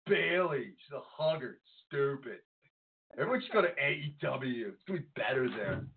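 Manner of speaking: lightly voiced petulant fan; half-hearted fanboy sulk, easing toward own voice; mild mock grumbling; whiny internet fan. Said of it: "That's the I W C voice from now on".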